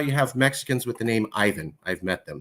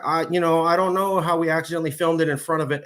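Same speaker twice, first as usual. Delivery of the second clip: mock evasive Aldean; 4 semitones higher, 3 dB louder than usual. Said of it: "and he goes".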